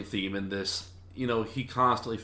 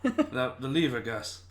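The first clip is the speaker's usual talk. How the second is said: put-on insistent voice, pitched up; magician to assistant; 3 semitones higher, slower than usual. Magician prompting Gus the cat, mock insistence. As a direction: playfully repeat the order to a useless assistant. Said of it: "He would just go".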